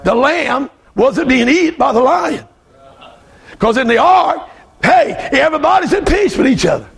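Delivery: animated preaching. Real, not acted. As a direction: press the point home to the church.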